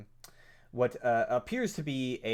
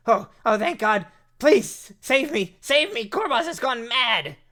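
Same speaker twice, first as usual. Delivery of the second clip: high, loud frantic cry for help; terrified gnome shrieking for rescue; panicked plea; 12 semitones higher, 10 dB louder than usual. Acted. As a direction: beg to be saved in a squeaky panic.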